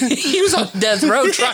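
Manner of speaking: laughing. Real, not acted. Laughing while joking.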